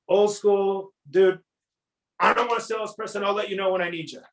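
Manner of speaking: mock customer waving off the salesman; gruff brush-off. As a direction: brush off the pushy salesman, old-school style. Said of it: "that's a rough one".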